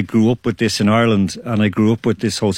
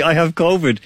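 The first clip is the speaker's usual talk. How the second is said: put-on French accent; 6 semitones higher than usual. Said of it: "I'm doing your accent".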